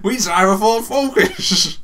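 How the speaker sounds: slow, high, loud presenter parody. Pretend. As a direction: announce it like a car show host. Same Top Gear parody.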